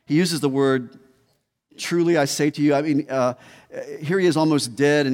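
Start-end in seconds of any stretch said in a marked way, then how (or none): 1.8-2.7 higher, louder emphasis on "Truly I say to you"; emphatic. Retold or imitated. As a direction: quote "Truly I say to you" with raised, emphatic assurance. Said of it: "He's emphatic".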